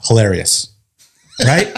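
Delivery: deadpan sarcasm. Real, not acted. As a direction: say it as if not amused at all. Sarcasm about knife pulled as joke.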